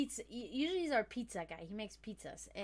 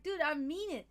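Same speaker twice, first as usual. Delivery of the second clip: raised, emphatic retold sincerity; earnest insistence; 4 semitones higher, 5 dB louder than usual. Worker assures coworker who suspects sarcasm, earnest insistence. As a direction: insist that you honestly mean it. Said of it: "but I'm being serious".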